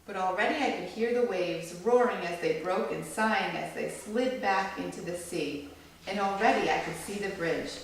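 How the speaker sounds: gentle storybook read-aloud; read-aloud to a small audience; reading to children. A narrator's reading. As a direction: read it like a picture book for kids. Reads picture book to children.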